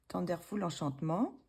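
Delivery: English title in a thick French accent; French accent on an English book title. Real, not acted. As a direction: say the English words with French sounds. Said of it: "avec mon bel accent anglais".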